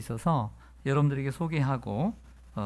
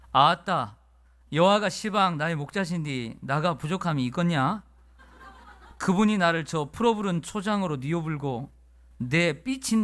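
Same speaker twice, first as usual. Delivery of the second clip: Jeolla dialect; 4 semitones higher than usual. Retold or imitated. Pastor reading the Jeolla dialect psalm to the congregation, in a lively Jeolla accent. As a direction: belt it out like a Jeolla uncle. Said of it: "이번에는 전라도 버전이 있습니다".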